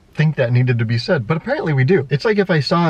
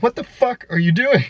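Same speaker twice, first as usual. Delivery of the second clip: angry yell; 9 semitones higher than usual. Retold or imitated. Driver yells at wrong-way driver.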